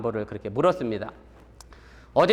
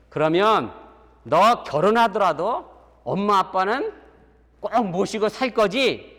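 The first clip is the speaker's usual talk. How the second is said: hopeful father; 6 semitones higher, 4 dB louder, slower than usual. Retold or imitated. Father asks again, hopeful.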